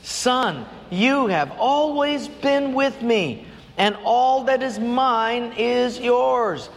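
a hint of a tender father, high and slow; gentle father. Father answers his resentful older son, slow and tender. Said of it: "And he said to him".

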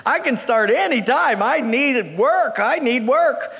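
mock-pleading job seeker, drawn-out words; desperate. Job seeker begging old man for work, mock desperate. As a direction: stretch the words in hammed-up need. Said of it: "he's really desperate".

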